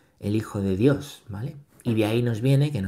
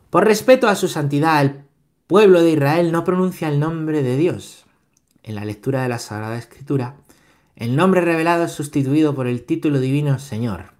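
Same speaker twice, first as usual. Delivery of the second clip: raised, projected catechism reading; formal reading aloud; 4 semitones higher, 6 dB louder than usual. Acted. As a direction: read it out firmly to the room. (lectura solemne en voz alta)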